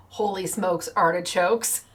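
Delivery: a light imitation of an Aussie accent. The speaker quoting Ozzy Andrews in a light Aussie accent. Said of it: "as he says in his Aussie accent".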